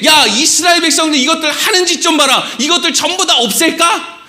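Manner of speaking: a touch of an irate God; God's voice. Retold or imitated. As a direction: play God venting to Moses. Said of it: "하나님은 지금 모세한테".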